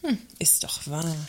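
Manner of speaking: whispered grumble under her breath; muttered aside. Acted. Works council rep grumbling under her breath to the director. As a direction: whisper it, half to herself.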